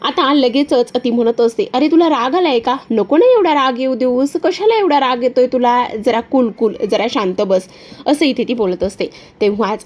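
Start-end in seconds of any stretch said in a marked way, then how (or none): 1.7-7.7 Disha's sly voice. Acted. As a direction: sweet-talk him with a sneer. Disha mocks his anger.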